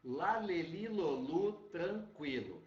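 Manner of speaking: la le li lo lu, each L crisp before the vowel; demonstrating the L before vowels; clear L syllables. Shown as a demonstration. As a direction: sound out "lá, lê, li, lô, lu" with a clean tongue-tip L. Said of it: "O L, quando tiver antes de vogal".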